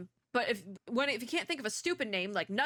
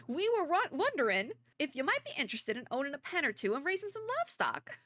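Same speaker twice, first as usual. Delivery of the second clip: bad Southern accent; 5 semitones higher than usual. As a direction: read it as a folksy Southerner, badly. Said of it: "hard to do with an accent".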